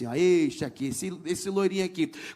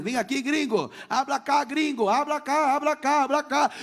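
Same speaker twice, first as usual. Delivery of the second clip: higher, louder, insistent repeated call; retold crowd calling after someone; imitated calling out; 5 semitones higher, 4 dB louder than usual. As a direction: chase him with eager calls. Whole school calling after him.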